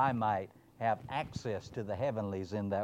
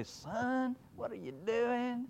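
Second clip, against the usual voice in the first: higher, a lightly voiced stern father; fatherly rebuke; 11 semitones higher, slower than usual. God confronting the preacher hiding in a juniper tree. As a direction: call down to the son on the tree. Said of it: "and say".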